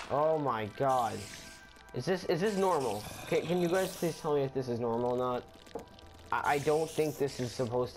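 high, worried astonishment; panicky, asking for help; alarmed surprise. Real, not acted. Strange spider swarm, alarmed.

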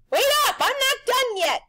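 high, loud call after him; holler. A narrator's reading. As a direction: shout to stop him leaving. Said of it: "he hollered".

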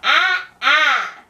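nasty voice demo. Shown as a demonstration. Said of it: "say it with a nasty voice".

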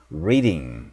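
"reading" with the R drawn back, tongue off the palate; English R pronunciation. Shown as a demonstration. Teacher models the R for learners, careful English R in "reading". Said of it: "R 발음은 혀가 천장에 닿지 않고".

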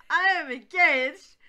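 high, loud, drawn-out mimicry; mocking echo. Hyde mimicking Jekyll's protest, mocking echo. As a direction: parrot it back in a loud, high voice.

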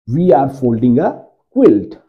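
very slow, word by word; slow model sentence. Shown as a demonstration. Teacher slowly modelling the sentence for students. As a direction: spell it out slowly for the class. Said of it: "model sentence repeated".

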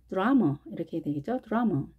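드라마 with the last a weakened to an uh sound; pronunciation demo. Shown as a demonstration. Teacher showing reduced vowel in 드라마 to students. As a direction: say 드라마 as drama, second a reduced to uh. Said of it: "어 발음을 합니다".

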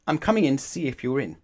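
loud, high, rapid announcement; pushy child's warning; determined child. Acted. Children arguing at the door.

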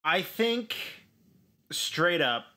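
hint of a blunt, no-nonsense man; lightly voiced stark Felix. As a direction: say it flat and to the point. Player voicing Felix's stark tone.

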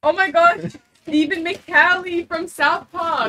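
loud, high delighted squeal; excited. Real, not acted. Real delight opening gift.

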